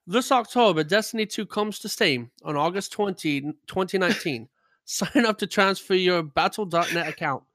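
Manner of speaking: attempted British slipping toward Southern; put-on British accent. Host reading the Steam news, badly faked British accent. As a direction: read it out in a shaky-authentic fake British accent. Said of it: "Why are you doing accents?".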